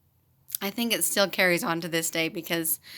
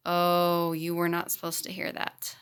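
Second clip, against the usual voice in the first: mock serious; 3 semitones lower than usual. Teacher teasing a little boy about the beep, mock serious. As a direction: play it gravely serious, low-key. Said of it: "And I got really serious".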